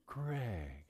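a soft, loving Greg; tender Greg. Shown as a demonstration. Pastor contrasting wife's call, soft loving Greg. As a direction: say the name like a caress. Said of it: "that, that Greg".

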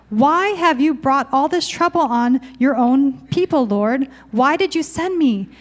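a touch of Moses' anguish; scripture reading. Acted. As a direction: read the protest with pleading weight. Reading Moses' protest from Exodus.

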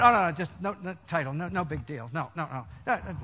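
falling, softening string of denials; mock-modest dismissal. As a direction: wave the title away, voice dropping off. Imagined Jesus modestly waving away title.

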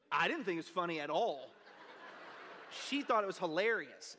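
chuckling through the retelling; laughing while telling. Real, not acted. Pastor laughing as he recalls the dispatcher's amusement. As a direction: let a real laugh leak into the words.

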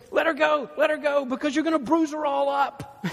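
loud, high commanding shout; a dad shouting over the couch scuffle; retold yell. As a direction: order him off his mother. Father ordering son to release mother.

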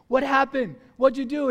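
retold startled questioning; alarmed demand. Sister alarmed by his laughter.

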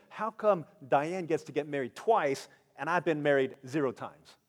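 a touch of cynical indignation; cynical complaint. Retold or imitated. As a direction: imitate a salty friend griping half in jest. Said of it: "there was a cynical, cynicism in it".

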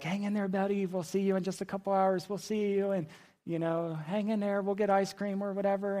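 put-on lightly upbeat reassurance to a child; parents reassuring child. Parents to their son headed to surgery, gently reassuring.

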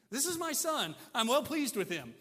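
high, forceful acted declaration; emphatic Father. The Father declaring his Son to doubters, emphatic. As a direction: proclaim it over every objection.

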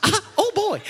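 laughing. Real, not acted. Laughs at own silly voice.

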